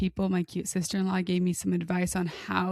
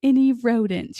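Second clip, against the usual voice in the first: higher, louder, put-on polite caller voice; sweet phone voice; 4 semitones higher, 7 dB louder than usual. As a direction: mimic mom's overly sweet customer voice. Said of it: "is like".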